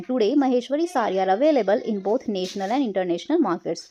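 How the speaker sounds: slow, careful textbook reading; teacher narrating an English passage, slow and clear; reading a passage aloud. Acted. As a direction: read it out slowly for the class.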